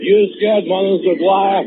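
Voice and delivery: lightly voiced mocking taunt; retold taunt. The speaker retelling how he taunted Manus. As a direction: needle him with a sneer. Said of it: "You hear yourself say".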